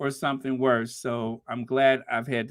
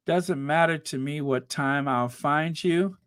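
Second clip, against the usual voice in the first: loan shark. Shown as a demonstration. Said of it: "that's what people that I owe money to usually say".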